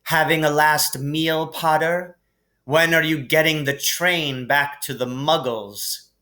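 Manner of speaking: mock him from above; lightly voiced sneering Malfoy. Malfoy taunts Harry at dinner with a light sneer.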